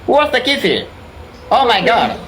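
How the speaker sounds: ordinary talk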